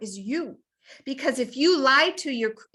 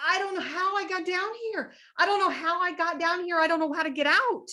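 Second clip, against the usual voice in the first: higher, bewildered; lightly voiced lost man; 5 semitones higher, faster than usual. Man in pit answers the passerby, higher. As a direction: lightly play the trapped man. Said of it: "And he's like".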